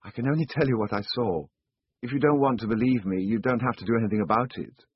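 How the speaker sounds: put-on a touch of a defiant boy; young boy, earnest. The boy answers the chiefs.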